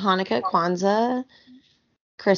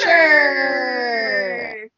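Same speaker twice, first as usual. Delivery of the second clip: loud drawn-out shout; 4 semitones higher, 3 dB louder than usual. Pretend. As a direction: call it out loudly. Shouting the show title.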